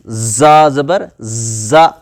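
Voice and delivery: زا زبر زا slow, with a hard z; firm z. Shown as a demonstration. Teacher recaps the letters, زا said firmly. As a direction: draw out زا with a pressed buzz. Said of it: "سختی کے ساتھ پڑھیں گے".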